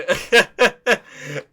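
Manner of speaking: bursting out laughing at own joke; a big real laugh; laughing hard at the house joke; loud laugh. Real, not acted.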